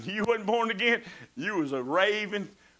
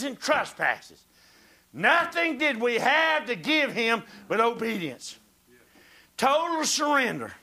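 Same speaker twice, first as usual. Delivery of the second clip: loud, rising preacher's cadence; preaching; 3 semitones higher, 4 dB louder, slower than usual. Acted. Preacher reading scripture to the congregation, loud and fervent. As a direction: preach it out with full force.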